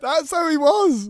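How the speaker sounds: very high, slow robotic voice; slow synthetic voice impression; mock speech synthesiser; Stephen Hawking impression. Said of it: "Ben told me to do Stephen Hawking".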